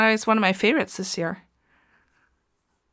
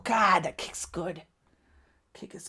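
whispered awe; 4 dB quieter than usual. Real, not acted. Awed aside watching kick.

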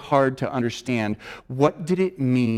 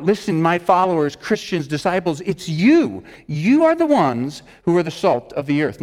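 calling them out; 3 semitones higher, 3 dB louder than usual. Retold or imitated. Jesus calling out his followers, raised and urgent. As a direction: call out to the followers. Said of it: "Jesus is calling them out".

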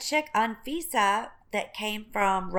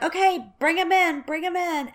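mock director; 8 semitones higher, 3 dB louder than usual. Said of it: "they would be like".

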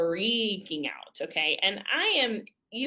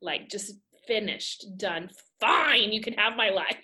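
ticked off surrender; 2 semitones higher, 4 dB louder than usual. Retold or imitated. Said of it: "ticked off surrender".

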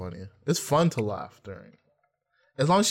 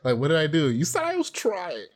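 put-on crying white girl voice; 5 semitones higher than usual. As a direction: whine like a hurt girlfriend. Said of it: "you start talking like a white girl".

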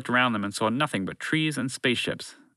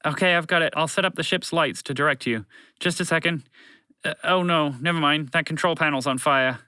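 higher-pitched, mildly panicked chatter; flustered broadcast voice; 5 semitones higher than usual. Acted. Broadcast voice trying to guide rescuers, flustered and higher. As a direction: find a fix, then lose hope.

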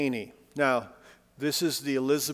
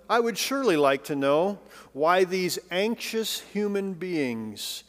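poem recitation. Acted. Preacher reading a sparrow and robin poem to listeners, lilting recitation. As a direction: recite the rhyme, lifting each opening line. Listen to what she wrote.

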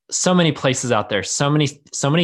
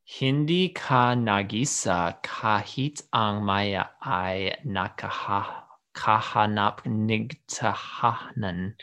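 casting a spell; 5 dB quieter, slower than usual. Real, not acted. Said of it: "I feel like you're casting a spell".

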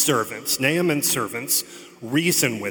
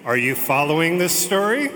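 louder, the word story rising high; playful preacher's call to the congregation; louder mock revival call; 3 semitones higher, 3 dB louder than usual. Real, not acted. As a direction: rouse the congregation, story lifted up. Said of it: "Shall I begin again?".

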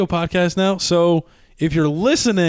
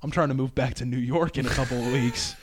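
softer, lower confiding to the bartender; hushed aside; 5 semitones lower, 9 dB quieter than usual. Retold or imitated. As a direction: lean in and keep it low. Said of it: "I lean into the bartender".

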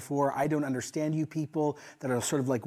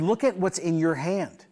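more force; 2 semitones higher than usual. Retold or imitated. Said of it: "she said it with more force".

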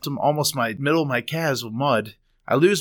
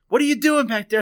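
imitating panicked wife; 10 semitones higher than usual. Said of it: "and she's like".

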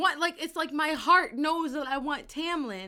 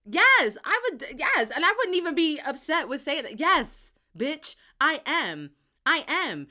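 loud, higher acted outrage; indignant retort; 3 semitones higher, 5 dB louder than usual. Acting as Feyre answering Reese, indignant retort. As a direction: fire back emphatically.

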